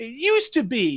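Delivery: high-pitched, mocking put-on voice.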